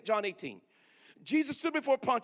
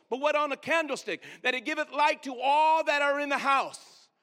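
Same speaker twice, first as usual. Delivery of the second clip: scripture recitation. Acted. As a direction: proclaim the verse with weight. Reads scripture in elevated voice.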